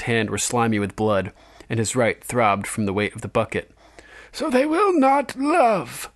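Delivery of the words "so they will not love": put-on very high, slow old man's voice; old maester. A narrator's reading. Old maester teaching Jon about ravens and crows, aged voice. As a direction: play an aged scholar, drawn out and high. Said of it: "the old man answered".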